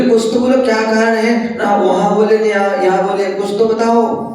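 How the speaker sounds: high-pitched, lightly acted insistence; urgent appeal. Sita begs silent Ram to explain, mildly urgent appeal.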